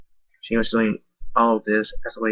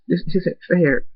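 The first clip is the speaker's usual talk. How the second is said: tearful, slow; 8 semitones higher, 3 dB louder, slower than usual. Acted. Friend grieving at deathbed.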